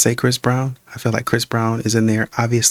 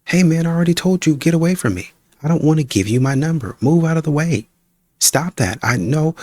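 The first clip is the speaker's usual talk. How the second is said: raised, firm rejection, higher voice; woman telling a stranger to back off, fed up; woman rejecting him; 5 semitones higher than usual. Acted. Woman acts rejecting a man.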